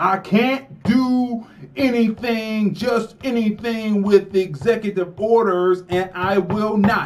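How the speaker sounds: insistent, emphatic, high, drawn-out yell. Retelling Biden on the tape, imitating him yelling. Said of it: "he's yelling at him".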